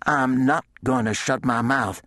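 defiant, angry retort at a mild pitch; snarled defiance. A narrator's reading. Widow defying Sheenan, a tight angry snarl. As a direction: throw his words right back at him. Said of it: "she snarled at him".

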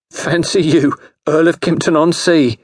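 put-on high-pitched teasing young lady; high, scoffing amusement; mocking. A narrator's reading. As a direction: tease him grandly in a high girlish voice. Grace mocks James's ambition.

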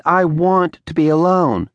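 "want" with a clear W, long t; quoting Garbo, keeping the W in "want". Retold or imitated. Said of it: "She pronounced the W".

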